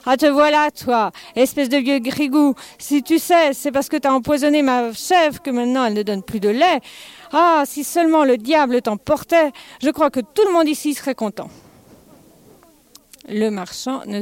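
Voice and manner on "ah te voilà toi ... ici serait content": loud, high angry cry from the doorstep; old lady yelling insults at the stingy merchant; old woman shouting. Acted. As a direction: hurl it at the miser, furious.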